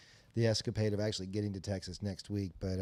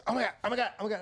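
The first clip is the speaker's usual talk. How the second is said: panicked wife shrieking; 10 semitones higher, much faster than usual. Retold or imitated. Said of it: "the wife starts screaming".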